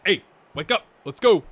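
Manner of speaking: sudden loud, punchy wake-up call; rousing mock call. Coach to players in La La Land, loud mock rallying call. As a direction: jolt the daydreamers awake. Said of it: "and you're like".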